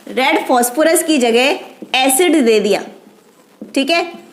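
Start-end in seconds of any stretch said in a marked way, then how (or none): 0.1-2.8 slow, spelled-out mnemonic with the stress on एसिड; teacher slowly dictates the trick, stressing एसिड. Shown as a demonstration. Teacher to students, slow dictated memory trick. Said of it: "याद करने की trick है ये तो".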